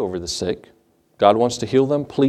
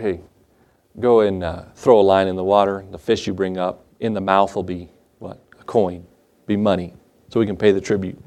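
a hint of a lower, steady Jesus; lightly voiced Jesus; 6 semitones lower than usual. Jesus telling Peter to fish for the coin, lightly lower voice. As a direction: give the instruction lower and calm.

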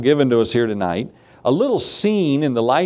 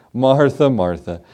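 gentle rebuke. Retold or imitated. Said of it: "What does He say?".

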